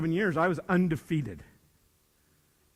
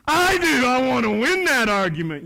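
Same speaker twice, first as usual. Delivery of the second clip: louder, higher eager claim; eager student; 5 semitones higher, 7 dB louder than usual. Retold or imitated. Teacher voices an eager student who wants to win arguments, excited. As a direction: play a kid who loves to win. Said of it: "that's what I'm talking about".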